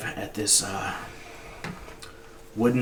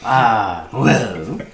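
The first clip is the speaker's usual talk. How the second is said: a hint of a jolly, fussing old shopkeeper; lightly voiced kindly orc gushing over customers; 7 semitones higher, 4 dB louder than usual. Shopkeeper keeps talking.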